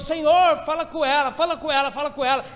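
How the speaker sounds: fairly loud repeated plea, fading; pleading prayer cry. Retold or imitated. Sweating pastor begging God to speak to her, pleading call. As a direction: beg God, calling out then easing off. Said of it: "E eu gritando".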